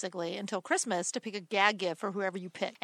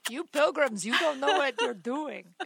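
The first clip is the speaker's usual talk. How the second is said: mock Italian or French accent; 4 semitones higher than usual. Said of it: "like I have an Italian or French accent".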